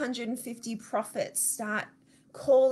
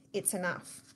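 weary sigh; 3 semitones lower, 7 dB quieter than usual. Retold or imitated.

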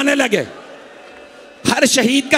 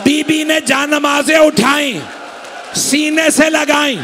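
rising lament; 4 semitones higher than usual. Acted. Preacher building to climactic lament.

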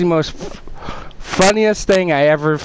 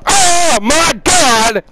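mock amazement; 11 semitones higher, 5 dB louder, much slower than usual. Mock ghost hunter reaction.

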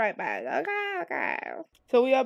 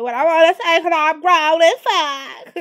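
laughing boast; 5 semitones higher, 11 dB louder than usual. Real, not acted. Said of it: "I'm joking".

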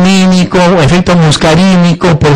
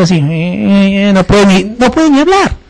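depressed professor. Retold or imitated. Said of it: "Entra así, calladito".

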